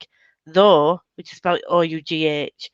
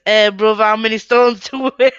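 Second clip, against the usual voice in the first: put-on louder caricature British accent; mock British slang accent; 5 dB louder than usual. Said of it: "You guys are like".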